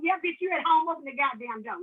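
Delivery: bang on the door and yell; angry visitor yelling at a crackhead; angry shout. Retold or imitated.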